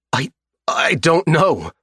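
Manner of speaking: high, stammering, frightened lie; a captive at gunpoint lying in panic, voice high; stammering scared denial, pitched high; terrified captive. Acted. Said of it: "the captive lies".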